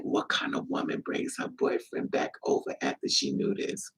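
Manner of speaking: soft unvoiced disbelief; hushed rhetorical question; incredulous hush. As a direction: breathe it out in shock. Quoting own shocked thought.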